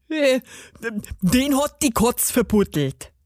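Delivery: hesitant gnome voice with a pause; stammering gnome. A narrator's reading. Gnome explains his missing arm, faltering. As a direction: falter after the first sound, as the gnome. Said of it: "stotterte der Zwerg".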